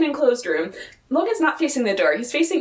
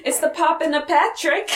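higher-pitched quote of a flustered character; Logan; 6 semitones higher than usual. Retold or imitated. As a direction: do an impression, pitched up, words run together. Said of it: "really good Logan impression there".

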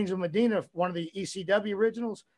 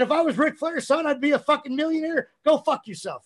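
retold angry taunt; 8 semitones higher, 5 dB louder than usual. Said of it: "I said".

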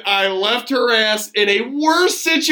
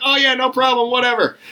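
acting all cool; 5 semitones higher, faster than usual. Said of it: "I was trying to act all cool".

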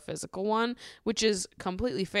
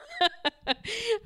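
a high real giggle; high-pitched giggling. Real, not acted. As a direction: burst into a squeaky laugh. Laugh after note.

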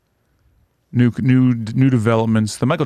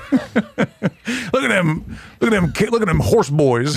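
mocking taunt; 8 semitones higher than usual.

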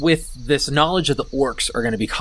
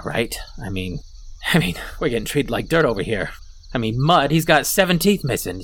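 lightly voiced kobold leader, hesitant and grumbling; slightly lowered, halting camp-leader voice; a hint of a downtrodden kobold boss; 4 semitones lower than usual. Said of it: "the camp, he goes".

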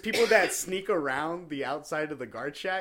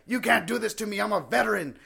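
mock pleading protest; 6 semitones higher, 5 dB louder than usual. Customer pleading.

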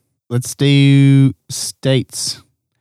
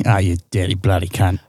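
lower, softer mock British jab; British accent; 5 semitones lower, 4 dB quieter than usual. Podcast host trash-talks his cohost under the game rule, in a British accent. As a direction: toss off a playful insult in a British accent. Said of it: "you need to speak in a British accent".

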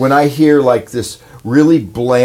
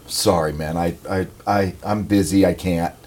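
sheepish refusal; 7 semitones lower, 7 dB quieter than usual. Retold or imitated. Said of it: "I've just said".

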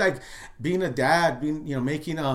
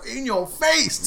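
higher, slow, laughing gloat; 9 semitones higher, 4 dB louder, much slower than usual. Retold or imitated. Father recalling his triumph after the climb, laughing gloat. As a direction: crow the words out while laughing. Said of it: "I'm like".

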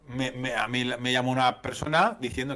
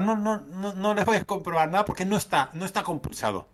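mock haughty refusal, higher; tono prepotente; 5 semitones higher than usual. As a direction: brush him off like a smug clerk. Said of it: "me lo decía con un tono potente". (negativa prepotente imitada, más aguda)

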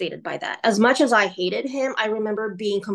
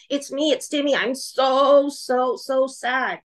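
imitated small boy, pitched up; higher childlike voice for a retold sad boy; sad little boy; 4 semitones higher, slower than usual. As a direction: act out a sorry little child, drawing out the words. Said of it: "turned into this almost like a little boy, and he's crying".

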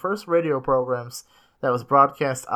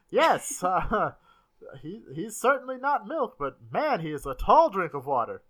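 put-on old-timey voice; 4 semitones higher than usual. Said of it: "the old-timey voice".

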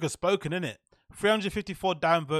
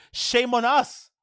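slow, louder, higher mock courtroom plea; lawyer impression; 7 semitones higher, 6 dB louder, much slower than usual. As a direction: ham up the lawyer's grand shame. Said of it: "That black guy lawyer that's got a weird accent".

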